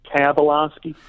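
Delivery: Tabolowsky with a short A first, "TAB-uh-LAHS-kee"; flat short "a" opening Tabolowsky; name variant. Shown as a demonstration. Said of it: "pronounce the name differently".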